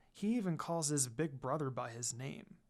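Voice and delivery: unvoiced whisper to herself; hushed whisper; whispered aside. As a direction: breathe it as a private aside.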